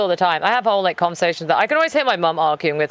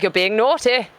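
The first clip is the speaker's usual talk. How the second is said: scolding a cat in posh British; prim, posh British telling-off. Retold or imitated. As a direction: put on posh British to chide a pet. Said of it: "Like a really posh British".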